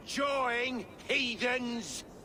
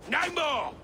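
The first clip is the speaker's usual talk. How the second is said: defiant shout; 4 semitones higher than usual. Acted. King defies the Danes.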